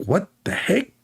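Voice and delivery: high, startled mock cry; a scared squeak of a man caught off guard; startled prophet.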